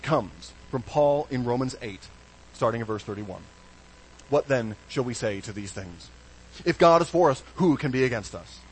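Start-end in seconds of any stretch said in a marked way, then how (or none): 4.3-8.6 scripture reading. Acted. Reads Romans aloud.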